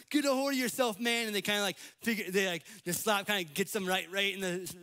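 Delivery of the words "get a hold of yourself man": higher and louder, hammed-up hero slapping sense into someone; mock movie yell. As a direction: bark it like a movie hero after the slap. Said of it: "smack them across the face and go".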